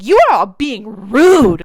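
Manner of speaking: loud indignant scolding of his family; telling them off. Retold or imitated. Patty scolding Simon's family at dinner, loud and indignant. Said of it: "and she's like".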